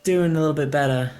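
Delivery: bright, friendly high call; cheerful cart driver. Acted. GM voices Tegan on cart.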